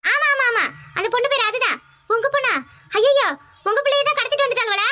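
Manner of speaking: high, excited, tumbling out; alarmed surprise. Acted. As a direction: jump on it as the penny drops. Realising the missing girl is hers.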